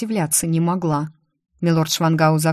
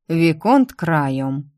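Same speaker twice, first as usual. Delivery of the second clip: very slow, drawn-out name; much slower than usual. Acted. Prince dismisses the viscount, drawing out his title. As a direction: stretch each syllable lazily. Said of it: "протянул принц Тигверт".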